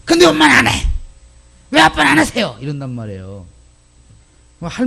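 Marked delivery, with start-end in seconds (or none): 0.0-2.6 put-on much higher, whiny child voice; child talking back. Child retorting to scolding parents, high voice. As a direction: answer back like a cheeky kid. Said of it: "요즘 애들이 뭐라고 그래요?".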